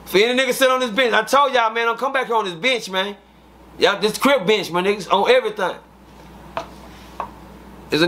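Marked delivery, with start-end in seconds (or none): 0.1-5.8 calling out to the room. Retold or imitated. Calling out to day room again.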